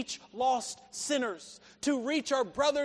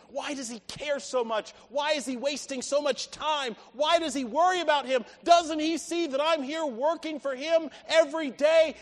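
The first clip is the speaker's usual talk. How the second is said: resentful questions building louder; acted grumbling, growing more forceful; annoyed older brother; 2 semitones higher, 5 dB louder than usual. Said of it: "the annoyance on the face".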